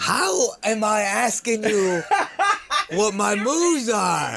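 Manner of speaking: laughing. Real, not acted. Laughing at his own move list.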